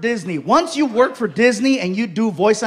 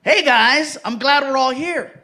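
higher, lifted voice-acting read; performed script read; 4 semitones higher, slower than usual. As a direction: perform the line for the microphone. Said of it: "Okay, here we go".

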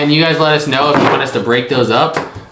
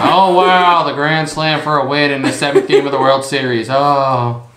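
fake excitement. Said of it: "so fake sounding there".

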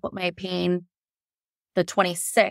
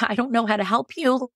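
higher-pitched imitation of desperate pleading; mock-tearful, pitched-up begging; crying plea; 4 semitones higher than usual. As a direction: plead helplessly, like someone in tears. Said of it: "Serge was crying".

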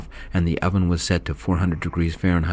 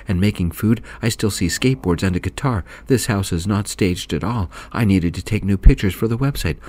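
screaming; 2 semitones higher than usual. Acted. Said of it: "and screamed".

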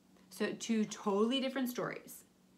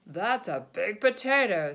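farmer voice; 6 dB louder than usual. Acted. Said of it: "said the farmer".

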